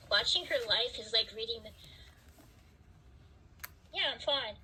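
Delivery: muffled voice, as if covered. Real, not acted. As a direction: speak through a hand over the mouth. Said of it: "I don't know why I sound muffled".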